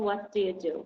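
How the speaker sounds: What do you do? with the voice falling on the last do; falling question. Shown as a demonstration. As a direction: drop the tune at the end. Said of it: "Goes down because that's a special question".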